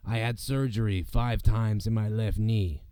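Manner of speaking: slow, low imitation of Rey Mysterio; lightly done wrestler impression. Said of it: "I did his voice".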